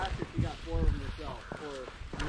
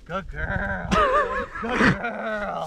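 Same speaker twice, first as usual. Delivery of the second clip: laughing praise; 6 dB louder, much slower than usual. Real, not acted. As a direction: praise the dog through laughter. Praising the dog.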